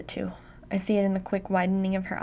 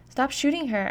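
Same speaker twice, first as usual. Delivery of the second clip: a desperate yell, higher and louder; 6 semitones higher, 4 dB louder than usual. A narrator's reading. Daughter yells at dad to stop shooting mom, desperate yell. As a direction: shout to make him stop. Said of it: "I yell".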